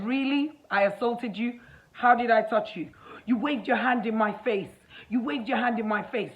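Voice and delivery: indignant retort. Retold or imitated. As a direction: throw the accusation back, pitch and volume up. Acted quarrel, disputing assault accusation.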